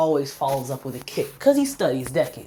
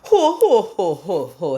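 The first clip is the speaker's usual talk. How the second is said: loud, high Santa-style ho-ho; hammed-up fake laughter; mock belly laugh; 3 semitones higher, 6 dB louder, slower than usual. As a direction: imitate a big laugh, starting loud and dropping off. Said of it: "he's laughing his".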